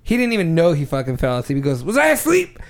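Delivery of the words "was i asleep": groggy confused question, high; just woke up, puzzled. Retold or imitated. Grandpa waking up confused.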